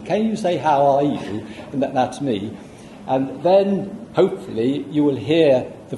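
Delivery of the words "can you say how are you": stupid voice. Retold or imitated. Lecturer imitating their own taped request to the voices, silly voice. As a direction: mimic a rather stupid voice asking. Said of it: "Rather stupid voice comes in".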